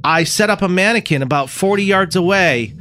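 brief the decoy in a drawn-out character voice; earnest movie lawman. Acted. Lawman instructing decoy to lure killer, hammy. Plays sheriff in movie scene.

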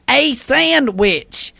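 slow proud punchline; telling a dad joke. Acted. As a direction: drag out the punchline. Caller delivers the punchline.

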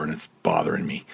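hoarse, worn-out flu voice; crackly sick voice. Real, not acted. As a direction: croak it out like you're sick. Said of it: "you might hear it in my crackly voice".

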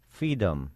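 put-on small child's slip on freedom, read lightly; freedom mispronounced childishly. A narrator's reading. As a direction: say freedom with the R dropped, "feedom". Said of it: "She couldn't even pronounce it".

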